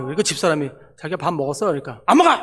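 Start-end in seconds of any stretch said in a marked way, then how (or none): 2.1-2.3 acted huffy, loud snap; sulky refusal. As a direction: refuse like someone in a sulk. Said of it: "삐졌어요".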